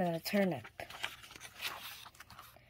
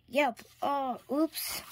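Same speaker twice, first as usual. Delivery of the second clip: yelp of surprise; 5 semitones higher, slower than usual. A narrator's reading. Everyone tumbling over.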